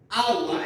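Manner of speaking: "agua" with the first A stressed. Shown as a demonstration. Teacher shows students where the voice falls in "agua", stressed first A. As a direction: lean on the opening A of "agua". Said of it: "Dónde recae la voz? En la primera A".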